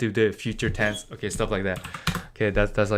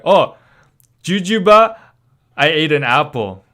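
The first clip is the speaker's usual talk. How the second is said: mock casual speaker; 3 semitones higher, 7 dB louder than usual. Mock speaker using invented word.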